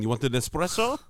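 playful South African impression; South African accent. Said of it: "This is South African".

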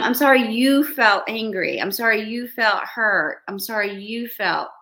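mock deflecting apology, first line loud; lightly hammed-up fake apology; non-apology. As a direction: hand the blame back with each sorry. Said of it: "Here we go".

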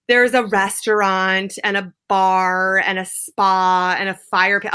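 ordinary talk

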